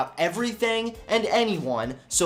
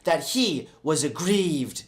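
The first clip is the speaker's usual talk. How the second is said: whiny voice; 3 semitones lower, slower than usual. Acted. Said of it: "using a whiny voice".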